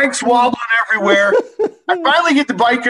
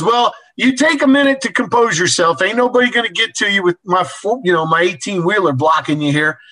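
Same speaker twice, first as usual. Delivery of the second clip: laughing. Retold or imitated. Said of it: "he's still laughing hysterically at me".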